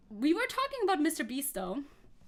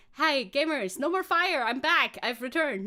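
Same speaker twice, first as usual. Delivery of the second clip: playful announcement; 5 dB louder than usual. Pretend.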